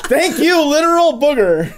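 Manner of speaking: high laughing thanks. Real, not acted. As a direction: tease through a laugh.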